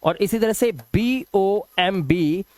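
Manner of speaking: "बी ओ एम बी" spelled out slowly, letter by letter; spelling aloud. Shown as a demonstration. Teacher spells a word for students, slowly. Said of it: "बॉम्ब ब नहीं बोलते".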